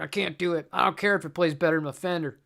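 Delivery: lightly mocking Southern grumbler; put-on Southern accent, playful complaint. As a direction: grumble it with a touch of Southern twang. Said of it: "Now I'm doing a Southern accent".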